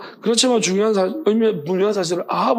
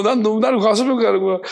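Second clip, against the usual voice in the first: 나를 said through a laughing, half-crying voice, a bit louder; 2 semitones higher, 3 dB louder than usual. Real, not acted. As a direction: push the words out while still laughing. Laughing at own overeating story. (웃음 섞인 울먹이는 목소리)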